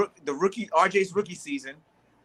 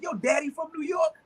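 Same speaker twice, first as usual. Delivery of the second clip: mock shout; 11 semitones higher than usual. To the Nets fan, a retold shouted taunt. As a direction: call him out across the street.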